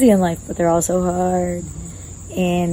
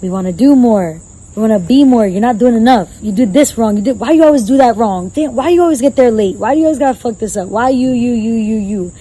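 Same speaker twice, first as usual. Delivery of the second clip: loud, scolding self-talk; mock inner critic tearing into you; harsh inner critic; 3 dB louder than usual. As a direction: berate yourself like a nagging voice.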